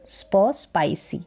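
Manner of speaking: "स्प" as spuh, then whole "स्पाइसी"; pronunciation demo. Shown as a demonstration. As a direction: sound the sp cluster, then "स्पाइसी". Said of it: "एसपी का उच्चारण स्प करके". (स्प, फिर स्पाइसी का उच्चारण)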